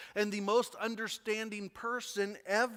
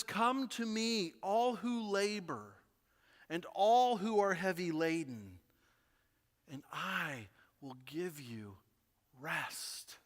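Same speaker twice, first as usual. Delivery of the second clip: tender invitation. Acted. Pastor voicing Jesus' gentle invitation to the weary. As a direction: offer rest gently, slowing down.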